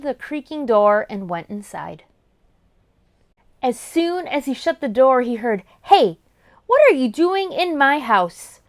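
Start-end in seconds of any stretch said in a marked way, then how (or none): 5.8-8.6 angry. Acted. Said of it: "angry little goblin".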